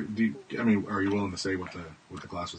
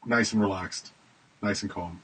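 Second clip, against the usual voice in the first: calm and relaxed. Shown as a demonstration. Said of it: "we're gonna slow this all down".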